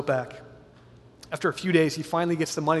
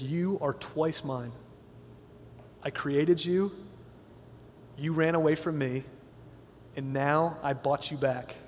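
tender vow; 4 dB quieter than usual. Acted. Boy speaks to his boat.

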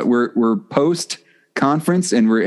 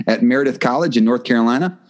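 an upbeat, rhythmic host read, pitched up and counting off points; announcer voice; 2 semitones higher than usual. Acted. Host introducing Tim to listeners, in his announcer voice. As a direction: introduce the guest like a radio announcer.

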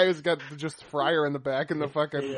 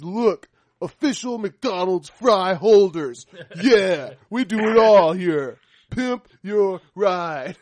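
slow showy host; 5 dB louder, much slower than usual. Pretend. Voicing host showing car.

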